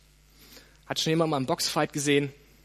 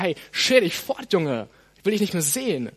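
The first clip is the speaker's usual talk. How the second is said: firm dismissal; 5 dB louder than usual. Acted. Acted rebuke of the devil.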